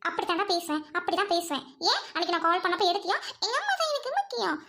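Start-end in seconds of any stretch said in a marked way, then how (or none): 3.5-4.5 higher mock mama's-boy voice; mock him as a mama's boy; mimicking boyfriend. Girl mocking her fiancé's words from the phone call, higher. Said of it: "அப்படின்னு சொல்லிட்டு போனை cut பண்ணிட்டேன்".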